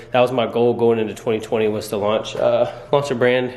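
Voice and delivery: breathless from running around; talking while catching your breath. Real, not acted. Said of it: "Sorry, I'm out of breath".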